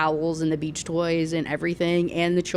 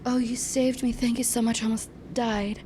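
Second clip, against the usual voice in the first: Suzette; 4 semitones higher than usual. Retold or imitated. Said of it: "And she's like".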